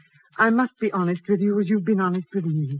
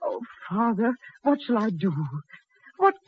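a touch of tears in the voice; tearful; 3 semitones higher than usual. Acted. Elizabeth tells her father why she weeps, tearful. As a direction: let the hurt press up under the words. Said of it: "still crying, I see".

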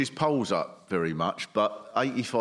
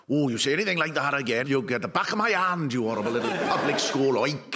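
put-on Welsh mum accent. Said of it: "so brilliantly Welsh".

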